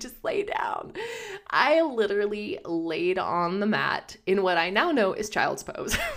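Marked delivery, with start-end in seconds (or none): 0.0-0.9 soft, breathy whisper under the breath. Retelling the lady in a hot yoga class urging lying down: imitating a whisper. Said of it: "whispering to me".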